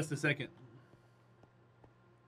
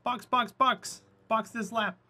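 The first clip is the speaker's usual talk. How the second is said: race engineer radio; 8 semitones higher, 4 dB louder than usual. Pretend.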